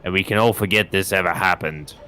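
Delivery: lightly voiced suave thief; a hint of a polished villain; eloquent thief voice. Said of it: "'cause I like doing that voice".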